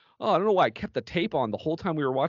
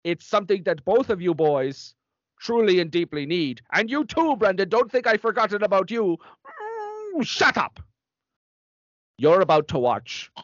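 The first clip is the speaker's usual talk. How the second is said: stern nun announcing; 3 semitones higher than usual. Acted.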